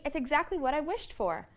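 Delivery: thrilled at the brand new bike; excitedly. A narrator's reading. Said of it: "said Brother excitedly".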